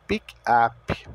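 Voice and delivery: "pick up" with the U sounded as "ah"; pronunciation demo. Shown as a demonstration. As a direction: model "pick up", an open "ah" in "up" and a plain P. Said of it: "o U tem o som". ("pick up" com o U de "up" com som de A)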